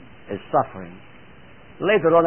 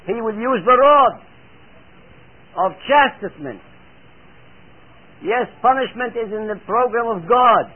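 raised, insistent sermon delivery; emphatic preaching; 6 semitones higher than usual. Real, not acted. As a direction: press each point on the congregation.

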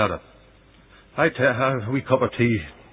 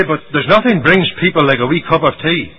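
slightly hammed-up, raised-voice protest; mock objection; 4 semitones higher, 5 dB louder than usual. Church member defending cups of tea, mock protest. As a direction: pipe up higher and louder as a mock objector.

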